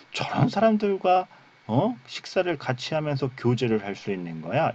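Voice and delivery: acted indignation, starting high then settling; mock a scandalised Pharisee's objection; tut-tutting disapproval. Pharisees objecting to meals with sinners, acted disapproval. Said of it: "이렇게 끌끌끌 혀를 찼단 말이죠".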